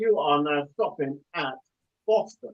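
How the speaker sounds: robotic computerized announcer voice, words broken up. Showing how the announcement on a train sounds: imitating a train announcement. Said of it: "it goes".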